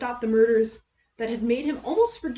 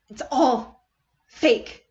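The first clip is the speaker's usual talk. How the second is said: laughing; 4 dB louder, much slower than usual. Acted. Laugh heard on words.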